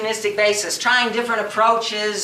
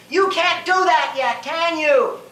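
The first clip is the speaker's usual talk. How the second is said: higher-pitched, taunting dare; taunting challenge; 5 semitones higher than usual. Acted. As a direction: throw it out as a challenge. Taunts audience before boasting answer.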